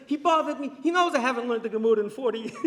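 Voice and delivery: put-on high, loud Hasidic accent with laughter; father laughing at himself; father laughing to the rabbi in Hasidic accent. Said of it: "with the thick Chassid".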